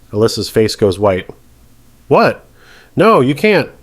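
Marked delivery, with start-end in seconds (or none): 2.1-3.7 high, shocked outburst; shocked protest. Acted. Defendant hearing her jail sentence, shocked. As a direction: blurt it out in disbelief.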